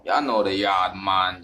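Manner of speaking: lightly imitated Jamaican patois lilt; Jamaican accent. Vlogger evokes Caribbean family's familiar speech, light Jamaican accent. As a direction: put on a touch of Jamaican accent. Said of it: "y'all know that accent I'm talking about".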